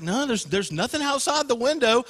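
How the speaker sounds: lightly voiced reassuring father; dismissive dad. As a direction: mildly play a dad dismissing a child's fear. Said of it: "And Dad's like".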